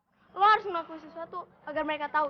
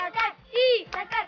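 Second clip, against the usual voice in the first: cheerleader; 6 semitones higher, slower than usual. Shown as a demonstration. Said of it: "Contohin dong".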